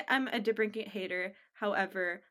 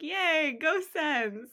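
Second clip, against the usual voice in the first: imitated happy fan cheer, pitched up; gleeful cheer; 6 semitones higher, much slower than usual. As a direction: cheer it with a big smile. Imitating a player's happy smile.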